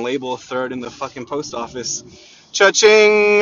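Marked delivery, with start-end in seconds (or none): 2.5-3.4 loud, high sing-song cha-ching; playful money cheer; cash register cheer. Pretend. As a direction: ring it out like a till. Celebrating easy money.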